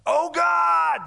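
high, loud theatrical cry to God; hammed-up shouted prayer; mock yell at God. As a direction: bellow it like a showy prayer. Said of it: "When they yell at God".

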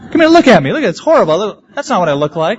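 playfully outraged, giggling; laughing mock protest. Calling his wife over to the mirror, laughing.

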